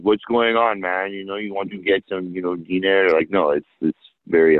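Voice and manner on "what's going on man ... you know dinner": light mock Persian accent, casual guy; a touch of a thick Persian accent, mocking; Persian fob accent. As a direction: imitate a fresh-off-the-boat Persian accent, lightly. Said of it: "some guy with a fob accent".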